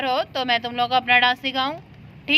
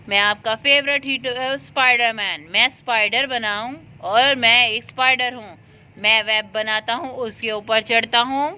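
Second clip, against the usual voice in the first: lightly voiced Spider-Man; 2 semitones lower than usual. Voices Spider-Man toy for children.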